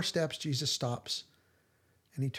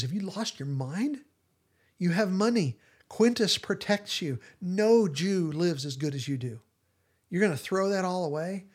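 incredulous scolding; 4 semitones higher than usual. Retold or imitated. Gaius berating Matthew for leaving his wealth, incredulous scolding. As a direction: berate him for throwing it away.

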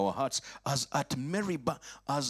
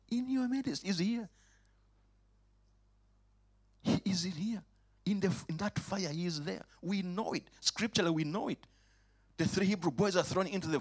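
much higher, urgent voice; high insistent preaching; 8 semitones higher than usual. Acted. Preacher's pitch leaps up.

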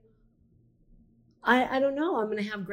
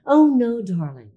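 British accent attempt; 6 dB louder than usual. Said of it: "Can we have the accent, please?".

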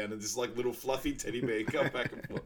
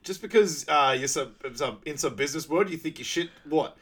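loud, higher angry tirade; mock angry rant; 5 semitones higher, 5 dB louder than usual. Tammy Lynn yelling at the date, angry rant. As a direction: rip into her with a mock rant.

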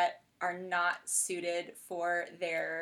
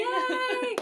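excited yay; 5 dB louder than usual. Real, not acted. Host cheers guest's news.

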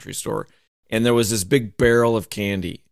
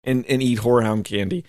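higher, chirpy wife voice that settles back toward plain by the end; wife impression; 7 semitones higher than usual. Wife bragging she carries the candy everywhere, voice pitched up. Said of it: "you're my wife impersonation".

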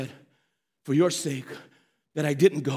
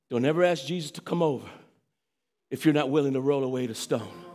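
said real slow; 8 semitones lower than usual. Shown as a demonstration. Preacher slowing down so the church hears it. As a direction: spell it out slowly for the church. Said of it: "Let me say that real slow".

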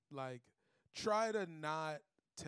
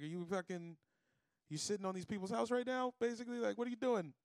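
higher, louder, mock police questioning; lightly voiced cop; 6 semitones higher, 4 dB louder than usual. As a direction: challenge him like a suspicious cop. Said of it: "the cops rolled up on me".

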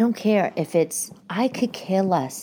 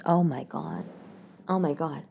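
whisper; 8 dB quieter than usual. Real, not acted. Horrified by cap sleeves.

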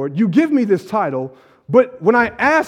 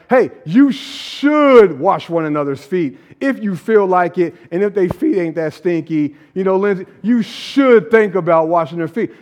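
casual suggestion; 3 semitones lower than usual. Retold or imitated. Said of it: "like, I'm suggesting this".

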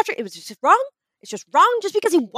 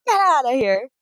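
mock betrayed fan. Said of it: "and I'm like".

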